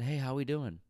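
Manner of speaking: high-pitched, pointed friendly hello; passive-aggressive pleasantry; passive-aggressive greeting. Retold or imitated. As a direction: make the greeting a veiled complaint. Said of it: "that was my passive aggressive way of saying".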